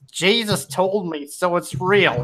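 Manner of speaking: slow attempt at a Southern American drawl; Southern American accent. Shown as a demonstration. Second try at an American accent for friends, slow Southern drawl. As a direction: stretch it out in a put-on Southern accent. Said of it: "Southern is easiest".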